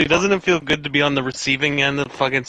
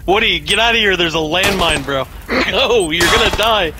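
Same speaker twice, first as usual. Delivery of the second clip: grenade warning yell; 5 dB louder than usual. Real, not acted. Warning teammate near landmine.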